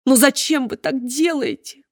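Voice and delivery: высоко и медленно, с жалобой; умоляюще, почти ноя; жалобно. Acted. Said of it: "сказал доктор жалобно". (доктор жалобно просит чиновницу)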